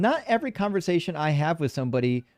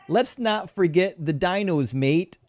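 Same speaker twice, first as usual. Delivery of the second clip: slow, slightly raised attempt at Australian; bad Australian accent; 4 semitones higher, slower than usual. Streamer reading a viewer's dino message, botched Australian accent. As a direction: try Australian and not quite get it. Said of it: "That wasn't it either".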